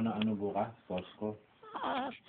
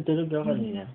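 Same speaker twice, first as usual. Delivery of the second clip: laughing; 3 semitones higher, 6 dB louder, faster than usual. Real, not acted. Laughing reply.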